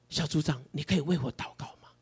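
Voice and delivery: soft, quick shy asking; timid request. Retold or imitated. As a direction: ask meekly, almost under breath. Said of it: "小组员竟然跟我说". (组员小声怯怯地请求)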